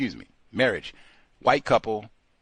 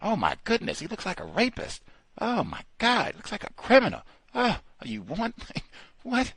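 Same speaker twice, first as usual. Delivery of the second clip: higher, hammed-up alarm; clutching pearls in mock fright; mock alarmed clerk; 10 semitones higher than usual. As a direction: ham up a panicky clerk. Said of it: "they'll have black children come in".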